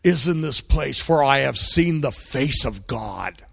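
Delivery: slow, drawn-out awe, retelling Jacob; amazed. Retold or imitated. Jacob waking from his dream of the ladder, amazed. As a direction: savour each word in retold wonder. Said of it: "Jacob is so amazed that he says".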